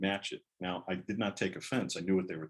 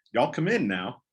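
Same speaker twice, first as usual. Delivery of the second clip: Southern teacher greeting; 5 semitones higher, 7 dB louder than usual. Retold or imitated. Teacher greets new Northern kid.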